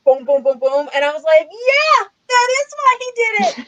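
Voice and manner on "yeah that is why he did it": high, quick, sing-song mockery; mocking high voice. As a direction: toss it off high and snide like a smug know-it-all. Mock answer to his soliloquy.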